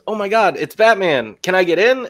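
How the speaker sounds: mock excitement. Fallon quote in the parody.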